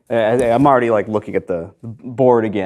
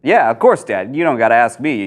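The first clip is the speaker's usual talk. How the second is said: calling back; 2 semitones higher, 4 dB louder than usual. Acted. Son calls back through door.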